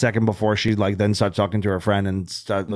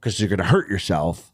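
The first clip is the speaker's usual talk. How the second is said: slightly deeper, firm dad voice; bass in the voice; 5 semitones lower than usual. Retold or imitated. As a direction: put a little bass into the warning. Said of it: "put a little bass in my voice".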